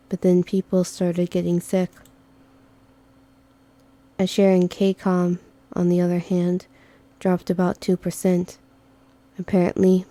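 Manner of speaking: calm flat-toned companion; monotone Yama voice. Acted. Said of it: "my monotone Yama voice".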